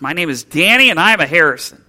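loud, fast and proud, almost a shout; nearly shouted. Retold or imitated. Boy repeats his name for his father, nearly shouting it. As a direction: belt it out like a boy suddenly sure of himself. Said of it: "the boy nearly shouted the words".

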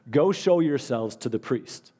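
slow, weighty words, each one set down; slow emphatic command. Shown as a demonstration. Pastor quoting Jesus to his church, slow and deliberate. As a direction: lay it out slowly like a command from Jesus. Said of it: "And then he told them".

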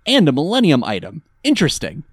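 lightly voiced scheming villain; a hint of a weird inner monologue; weird villain musing. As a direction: ponder it oddly, as if thinking aloud. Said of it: "he says it so weirdly".

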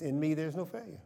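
pastor leading the church in an affirmation, preached; call for the congregation to repeat. Shown as a demonstration. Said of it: "In me, say this".

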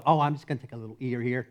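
quick, offhand mock-dainty line; mock casual. Preacher joking about what Peter wouldn't say, mock casual. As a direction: toss it off lightly and quickly. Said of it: "Peter's not one to go".

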